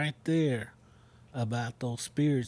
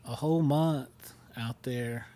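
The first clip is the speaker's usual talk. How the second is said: whispering. Real, not acted. Spooky ghost story detail.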